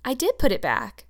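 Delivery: put-on a child's pert protest, hitting "did"; quick, pert. A narrator's reading. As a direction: answer back pertly, stressing "did". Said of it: "said Anne quickly. Pertly".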